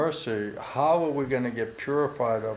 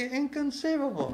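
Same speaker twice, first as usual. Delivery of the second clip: much higher, hushed wonder; awestruck; 11 semitones higher than usual. Retold or imitated. Devotee marvelling at Krishna's gifts, high and awed. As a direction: marvel at it, breathless. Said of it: "It's like".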